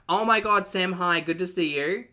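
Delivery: high, loud delighted hello; excited greeting. Real, not acted. Host greeting Sam on the stream, excited and high. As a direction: greet a friend with a high-pitched burst. Greeting a viewer who just arrived.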